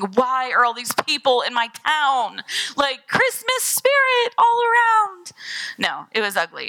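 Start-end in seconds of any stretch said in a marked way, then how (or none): 0.0-5.3 slow wail climbing high at the end; hammed-up despair, drawing out the last words; exasperated wail. Driver stuck in parade traffic, exasperated wail. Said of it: "pounding my head on the steering wheel".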